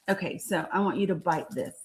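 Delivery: soft, gentle coaxing to a little one. Real, not acted. Mother coaxing child to eat.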